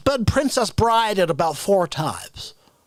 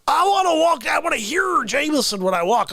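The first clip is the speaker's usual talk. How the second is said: shouting; 3 semitones higher than usual. Acted.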